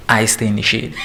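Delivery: "I stay in the shade" said through a laugh; laughing emphasis. Real, not acted. Laughing as she tells the class she stays in the shade. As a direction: chuckle as you stress "shade". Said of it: "Emphasizing that".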